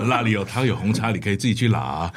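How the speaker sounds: Hong Kong shop owner voice; lightly voiced gruff shopkeeper; roast-meat shop owner. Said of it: "什么烧腊店老板啊".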